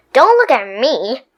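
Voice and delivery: talking while chewing; words through a chew. Acted. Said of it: "chewed Stuart".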